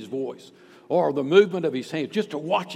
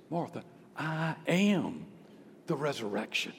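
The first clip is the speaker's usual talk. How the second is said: solemn declaration; 7 dB quieter than usual. Acted. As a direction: draw out "I am" and land gently. Jesus solemnly declares himself to Martha.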